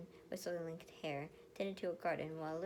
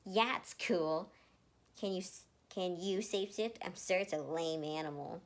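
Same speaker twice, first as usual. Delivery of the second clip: scoffing; 6 dB louder than usual. Acted. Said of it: "Leon scoffed".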